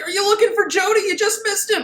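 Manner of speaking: high, bright mock-innocent quip; hammed-up cheeky hero. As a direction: play dumb cheerfully. Hero quips to villain.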